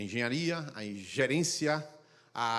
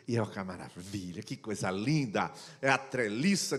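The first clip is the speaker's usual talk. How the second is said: hushed, lowered mock-adoring baby voice; baby-talk voice; 7 semitones lower than usual. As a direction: coo it like talking to an infant. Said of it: "fala com o tom de que tá falando com o bebê".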